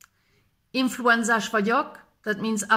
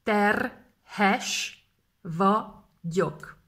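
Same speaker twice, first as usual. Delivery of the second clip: slowly split; much slower than usual. Shown as a demonstration. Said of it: "Terhes / vagyok (slow split)".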